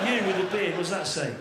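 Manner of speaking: a touch of desperation in the question; desperate. Acted. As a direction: mock-desperate call to an audience member. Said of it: "He says in desperation".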